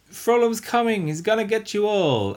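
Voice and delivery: high, loud frantic warning; hammed-up panicked Quasimodo. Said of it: "and he's like".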